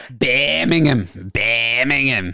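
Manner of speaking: imitation Brummie, stretching the word out; Brummie accent. Host echoing the guest's city name, mock Brummie accent. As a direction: try out a drawn-out Birmingham accent. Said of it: "a very strong Birmingham Brummie accent".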